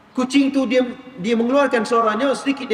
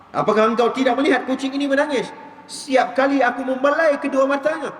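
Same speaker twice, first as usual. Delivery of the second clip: angry rebuke; 3 semitones higher than usual. Retold or imitated. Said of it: "dia marah pula kawan tu".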